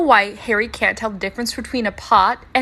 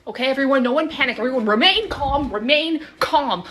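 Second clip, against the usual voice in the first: slightly raised, emphatic announcement; mock urgent calming; 3 semitones higher than usual. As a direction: urge calm while bursting with news. Mock panic before milestone news.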